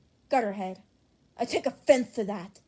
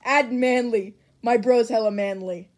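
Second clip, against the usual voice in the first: loud; 11 dB louder than usual. Acted. Kirishima hyping his bro loudly.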